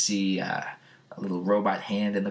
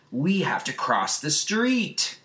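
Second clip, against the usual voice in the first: mock-dramatic; 5 semitones higher, slower than usual. Dramatic line from comic acted.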